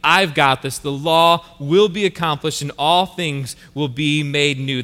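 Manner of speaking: confident declaration. Acted. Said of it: "It's Christ saying".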